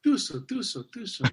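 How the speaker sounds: "Tuso, tuso, tuso" chanted as a spitting charm; mock spitting charm. Shown as a demonstration. Answering the host's superstition question, a spitting charm chanted three times. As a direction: ward off the evil eye, "Tuso" spat out three times. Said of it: "Any superstition".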